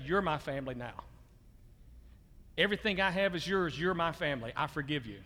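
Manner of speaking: soft, low and gentle, offering a home; tender forgiveness. Pretend. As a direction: speak as if embracing the one who wronged you.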